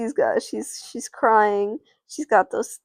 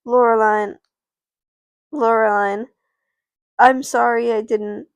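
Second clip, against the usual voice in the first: louder, firm apology; determined; 6 dB louder than usual. Acted. Mackenzie to crying Loreline, determined apology. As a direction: apologize with resolve, name first. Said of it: "With this determination in her eyes".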